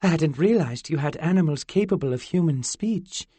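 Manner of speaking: put-on high, curious fairy girl.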